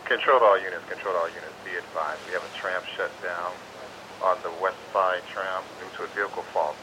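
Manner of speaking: crackly two-way radio dispatch; radio call to all units; marine radio. Real, not acted. Dispatcher broadcast over radio.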